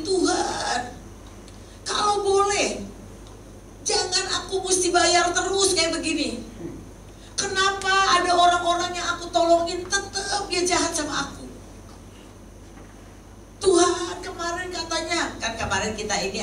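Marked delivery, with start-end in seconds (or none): 0.0-11.5 high-pitched plaintive plea; mock whining prayer. A believer complaining to God in prayer, high whining. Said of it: "Itu masih merintih-rintih". 13.6-15.4 high-pitched plaintive plea; mock whining prayer. A believer complaining to God in prayer, high whining. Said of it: "Itu masih merintih-rintih".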